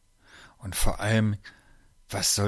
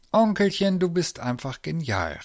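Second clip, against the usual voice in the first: high, louder jubilant exclamation; delighted cry; 7 semitones higher, 4 dB louder than usual. A narrator's reading. Lisa praises her uncle after his explanation, jubilant. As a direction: call it out, thrilled. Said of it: "rief sie".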